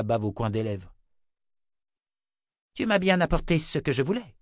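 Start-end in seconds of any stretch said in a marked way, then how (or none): 2.7-4.3 high hissing menace; hissing woman. A narrator's reading. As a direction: hiss it out like a sly witch. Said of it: "siffla la femme".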